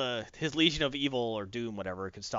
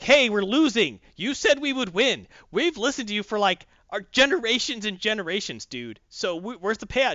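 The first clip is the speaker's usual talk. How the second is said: complaining henchman; 5 semitones higher, 4 dB louder than usual. Retold or imitated.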